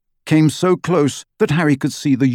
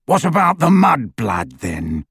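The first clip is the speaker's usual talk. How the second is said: growled; 3 semitones higher than usual. Acted. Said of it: "growled Greyback".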